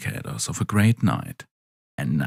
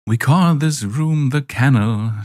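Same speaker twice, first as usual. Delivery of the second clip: slow, pleased general voice; 5 semitones higher, 3 dB louder than usual. Acted. General introduces the room.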